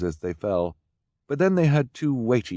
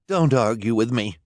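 snapping; 3 semitones higher, 5 dB louder than usual. A narrator's reading. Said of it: "Esme snapped".

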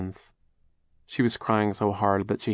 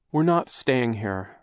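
impatient; 3 semitones higher, slower than usual. Acted. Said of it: "Violet said impatiently".

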